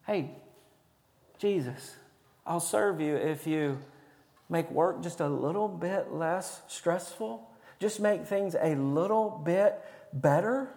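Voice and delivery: lightly acted, hushed request; soft bargaining plea. Preacher voicing a believer bargaining with Jesus, soft tentative plea. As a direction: ask a small favor, softly and tentatively. Voices a bargaining churchgoer's prayer.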